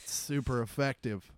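slightly stoned, loose delivery. Real, not acted. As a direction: talk like you're a bit high. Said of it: "I'm pretty high".

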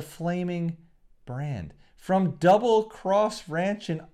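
announcer billing. Retold or imitated. Reciting Terry Funk's billing.

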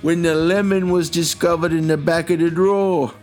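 reads the news story in a mock British accent; a hint of an English newsreader accent. Host reading a strange news item to co-host, in a light British accent. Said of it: "that was a wonderful accent".

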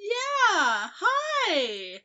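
high, loud, drawn-out awkward hello; flustered greeting swooping down from high; shocked greeting. Acted. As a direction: blurt it high and loud, caught off guard. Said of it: "kind of shocked".

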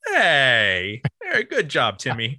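a hint of a cheery proud dad; lightly voiced parent praising their kid. Parents praising their son's grade, lightly hammed-up cheer.

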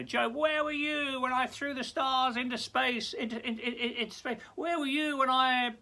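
high, loud, booming challenge; God challenging Job from the storm. Retold or imitated. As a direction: thunder down at Job. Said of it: "You know".

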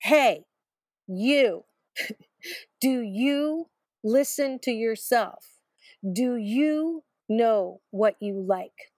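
lightly voiced heavenly voice asking her questions; voice from the sky. Voice from the skies answering her crying, lightly acted and slowing. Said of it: "a voice cried down to me saying".

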